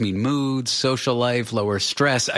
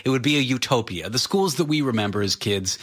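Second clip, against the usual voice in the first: sarcastic. Real, not acted. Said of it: "I'm slightly being sarcastic right now".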